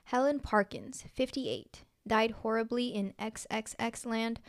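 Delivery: measured, even read-aloud delivery; story narration. A narrator's reading. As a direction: read it out clearly like a written story. Reads own story aloud.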